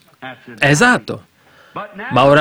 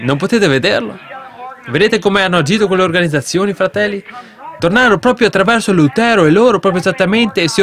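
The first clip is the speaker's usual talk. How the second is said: raised pitch, urgent preacher's delivery; fervent preaching; 6 semitones higher than usual. Real, not acted. Preacher rebuking the organizations before the brethren, fervent preaching. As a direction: preach it high and insistent.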